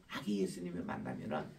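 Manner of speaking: gently imitating a child; child's quote. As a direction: hush it like a shy child. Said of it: "어떤 아이 하나가 딱 해서".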